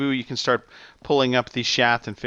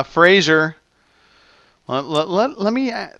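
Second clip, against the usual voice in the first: talking around a lollipop; words slurred by a lollipop in mouth; sucking a lollipop; 7 semitones higher, 6 dB louder than usual. Real, not acted. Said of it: "what is this lovers?".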